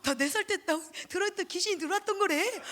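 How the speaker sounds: gleeful report. Retold or imitated. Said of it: "기뻐하면서 자기 엄마한테 가서".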